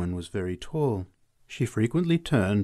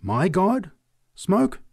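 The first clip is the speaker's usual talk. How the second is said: high, loud disbelief; scandalised rising questions; indignant; 9 semitones higher, 5 dB louder, much slower than usual. A narrator's reading. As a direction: repeat it as an outrage. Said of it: "drew herself indignantly erect".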